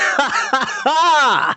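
high, staged "ha ha ha"; mocking villain laugh. Villain mocks hero's blade.

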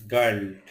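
গার্লড begun with a hard G, unlike J; exception with hard G. Shown as a demonstration. Teacher citing an exception to the rule, গার্লড said with hard G. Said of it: "ব্যতিক্রম".

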